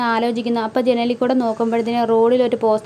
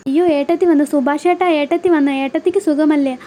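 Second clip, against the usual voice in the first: higher, lightly acted delight; mildly excited welcome; 3 semitones higher than usual. Boy tells household his sister-in-law is back, mildly excited. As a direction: announce the arrival with a touch of excitement.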